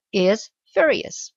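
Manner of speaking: whispered "is furious"; whispered aside. Real, not acted. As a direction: breathe it under your voice. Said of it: "excuse me, I lost my sentence".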